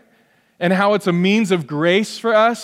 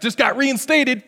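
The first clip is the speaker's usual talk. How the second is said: glib and arrogant doctor; 6 semitones higher than usual. Retold or imitated. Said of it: "kinda glib and arrogant".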